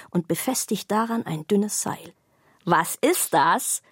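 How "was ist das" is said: curious. A narrator's reading. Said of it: "fragt die Tasche".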